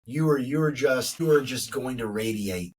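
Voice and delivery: hushed and loving, as if she were listening; tender to daughter. Retold or imitated. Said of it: "you look at 'em and you're like".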